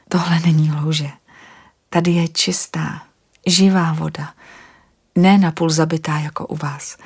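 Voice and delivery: gentle whisper to calm him; soothing whisper. Acted. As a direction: whisper reassurance, unhurried. Anastasia explains living water.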